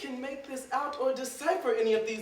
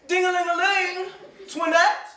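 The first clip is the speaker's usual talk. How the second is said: mock bell ringing; 7 semitones higher, 4 dB louder than usual. Ringing bell, calling servant.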